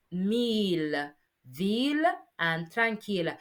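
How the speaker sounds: "mille", "ville", "tranquille" with a clear final L; L-sounded exceptions. Shown as a demonstration. Teacher listing exceptions, "mille, ville, tranquille" ending in L. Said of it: "except for words like".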